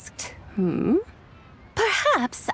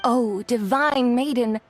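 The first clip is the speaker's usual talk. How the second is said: poem recitation. Acted. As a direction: recite it like a sacred ritual verse. Continues reciting the ritual poem.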